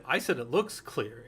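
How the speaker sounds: slow retort, leaning on "looks"; stress on LOOKS. Retold or imitated. Movie character answering the complaint, stressing "looks". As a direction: draw out "looks" to correct the other person. Retold correction, contrast with was clear.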